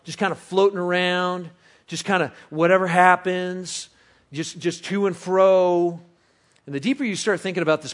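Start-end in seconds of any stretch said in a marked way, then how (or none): 0.0-6.0 slowing reflective quote. Retold or imitated. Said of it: "He says".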